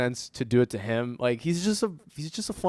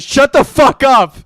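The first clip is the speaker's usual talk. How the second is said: much higher and louder, slow half-serious snap; half-joking shout; 12 semitones higher, 14 dB louder, slower than usual. Retold or imitated. Riley Reid, hand over his mouth, telling him off in a half-joking shout. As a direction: shut him up, half in jest, half for real. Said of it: "kinda jokingly, kinda serious".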